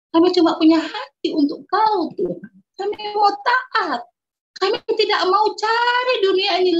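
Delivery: loud, earnest retold prayer; fervent prayer. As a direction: pour the prayer out loudly as if pleading with God. (doa lantang penuh semangat)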